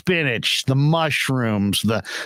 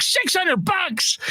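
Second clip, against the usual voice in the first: mock outraged yell, much higher and slow; imitated yelling; much slower than usual. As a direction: wail the price like a panicked boss. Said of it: "He's screaming, he's yelling".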